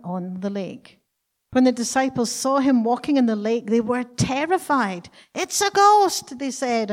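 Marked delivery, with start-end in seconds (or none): 5.3-6.4 high, loud frightened shout; fearful cry. A narrator's reading. Disciples seeing a ghost on the lake, terrified cry. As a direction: shriek it out in terror. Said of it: "cried out in fear".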